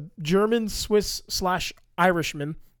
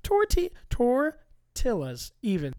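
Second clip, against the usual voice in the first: tortillas said higher with a Spanish lilt, tor-TEE-yas; Spanish accent; 7 semitones higher, slower than usual. Pretend. Mocking the Spanish pronunciation of tortillas, mock Spanish accent. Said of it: "Don't say tortilla".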